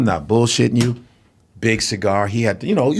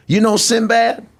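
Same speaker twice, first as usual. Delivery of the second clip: Cosby impression, much higher, laughing; Bill Cosby impression; 9 semitones higher than usual. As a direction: stretch it out like Cosby lecturing. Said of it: "he goes".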